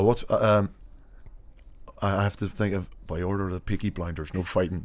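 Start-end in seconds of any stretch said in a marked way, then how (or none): 3.0-4.8 failed attempt at a Birmingham accent; badly faked Birmingham accent, coming out Irish. Shown as a demonstration. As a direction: have a shaky go at Brummie.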